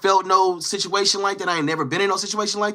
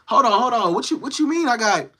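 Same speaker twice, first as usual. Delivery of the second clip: imitating startled objection; 6 semitones higher than usual. Acts out his startled objection.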